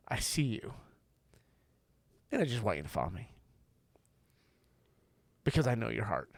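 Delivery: a hint of Jesus comforting a kneeling friend; tender Jesus. Jesus comforting ashamed Peter, gentle and tender. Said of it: "He just says".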